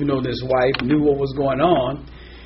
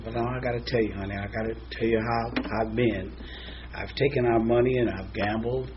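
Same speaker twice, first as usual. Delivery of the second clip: soft guilty confession; 4 semitones lower, 8 dB quieter than usual. Acted. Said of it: "we'll get a little dramatic".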